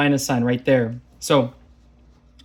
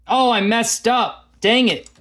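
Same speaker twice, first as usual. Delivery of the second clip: high, dismayed oh, catching a slip; real startled groan at her own error; caught own mistake; 7 semitones higher than usual. Real, not acted. Teacher noticing her own mistake on the board, dismayed. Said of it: "I'm messing up".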